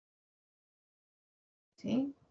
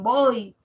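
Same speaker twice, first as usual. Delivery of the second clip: "voy" as a single emphatic beat; "voy" demonstrated as one stressed sound; one syllable; 6 dB louder than usual. Shown as a demonstration. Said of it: "se escucha una sola sílaba".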